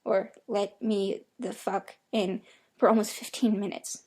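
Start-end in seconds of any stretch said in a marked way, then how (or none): 0.5-2.4 slow, halting, unnatural rhythm with no cadence; halting inhuman voice. Acted. Creature at the door begging to be let in, halting and inhuman. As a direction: mimic a thing copying human speech, word by word. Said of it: "it just keeps saying".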